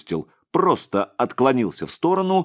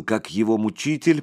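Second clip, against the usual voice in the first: usual speaking voice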